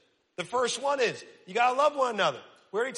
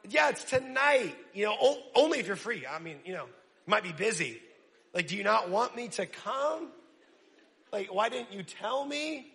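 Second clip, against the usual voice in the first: awkward hurt. Retold or imitated. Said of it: "And you're like".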